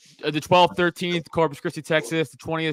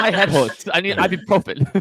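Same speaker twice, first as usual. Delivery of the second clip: mock toddler; 2 semitones higher than usual. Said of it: "You sound like a toddler".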